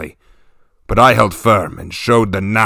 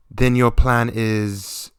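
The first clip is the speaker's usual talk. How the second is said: urging; much slower than usual. Acted. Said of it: "Aela urged".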